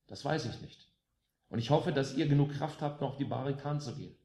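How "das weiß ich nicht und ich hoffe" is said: ordinary delivery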